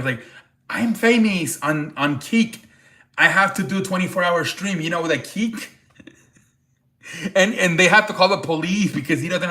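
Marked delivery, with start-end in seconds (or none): 0.7-5.7 put-on Turkish accent. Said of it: "so he does an accent".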